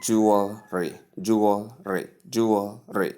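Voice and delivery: "jewelry" as JOO-ul-ree; correct pronunciation. Shown as a demonstration. Teacher models jewelry for learners, correct pronunciation. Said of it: "that's how you pronounce the word".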